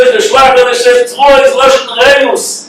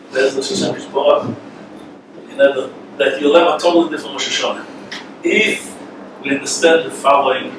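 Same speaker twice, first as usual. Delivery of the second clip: much softer, low intimate aside; quiet confidential sermon aside; hushed confiding; 9 semitones lower, 7 dB quieter than usual. Real, not acted. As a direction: draw them in close with a hushed voice. Drops voice to share secret.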